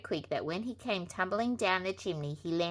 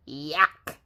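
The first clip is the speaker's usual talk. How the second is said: disgusted squeal; 2 semitones lower, 7 dB louder than usual. A narrator's reading. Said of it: "squealed the little pigs".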